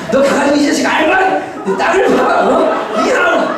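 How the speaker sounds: high-pitched, worked-up parental rant; mock scolding. Parent tearing into the child who didn't know, mock scolding. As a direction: act out an angry telling-off. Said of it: "혼내고 싶죠".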